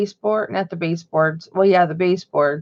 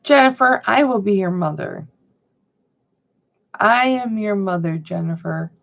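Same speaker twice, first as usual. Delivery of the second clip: mock Darth Vader. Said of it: "Like Darth Vader".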